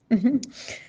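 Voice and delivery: small laugh between sentences; amused chuckle. Real, not acted. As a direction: chuckle at your own anecdote. Amused at battery detail.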